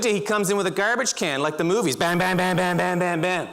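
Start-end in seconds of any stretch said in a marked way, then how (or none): 2.0-3.5 rapid monotone string of bangs; imitated banging. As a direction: mimic a garbage can being hammered. Imitating garbage can being banged.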